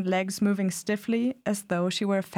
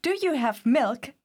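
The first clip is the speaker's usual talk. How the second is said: theatrical; 5 semitones higher than usual. A narrator's reading. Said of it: "extravagant and theatrical in all her expressions".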